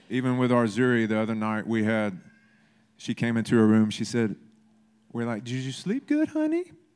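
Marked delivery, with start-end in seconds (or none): 5.4-6.6 very high, cutesy, snuggly sweet voice. Retelling what they said to someone in the morning: put-on snuggly cute voice. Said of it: "we're real snuggly and cute voices in the morning".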